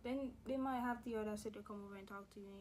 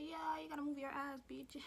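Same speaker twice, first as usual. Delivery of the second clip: mock bossy teacher; 4 semitones higher than usual. Joking invented teacher's bossy reply.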